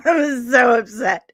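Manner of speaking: whispered through a laugh. Real, not acted. Streamer laughs at herself to chat, whispering. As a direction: laugh it out under the breath.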